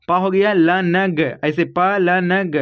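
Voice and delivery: slow, drawn-out syllables in पलंग; slow motion. Shown as a demonstration. Teacher sounding out पलंग for kids, slowly. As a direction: stretch out पा and लनग syllable by syllable. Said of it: "इसको आप slow motion में पढ़ेंगे ना".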